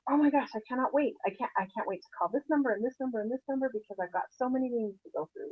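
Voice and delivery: bubbly can't-wait voice; eager and excited. Shown as a demonstration. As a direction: gush like you can't wait to dial. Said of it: "Or are you thinking".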